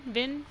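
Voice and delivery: "Vin" tried as one short syllable; unsure pronunciation. Shown as a demonstration. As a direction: offer "Vin" as a questioning guess. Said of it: "don't really know how to pronounce it".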